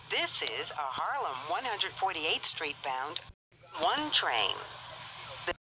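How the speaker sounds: choppy automated subway announcement; pieced-together recorded phrases, uneven joins; spliced together words. Real, not acted.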